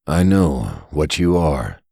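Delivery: slow, pitying and knowing; full of pity. Acted. Costumed man speaking to Derek with slow pity. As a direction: pity him as you say it. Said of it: "his voice was full of pity".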